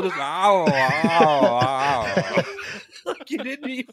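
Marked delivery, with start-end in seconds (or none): 0.0-2.4 mock mumble. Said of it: "like wind blowing through your mouth hole".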